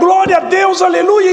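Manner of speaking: high, loud cry of "Glória a Deus"; retold shout of praise. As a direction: shout the praise as it first burst out. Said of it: "eu até comecei a gritar". (grito de louvor, alto e agudo)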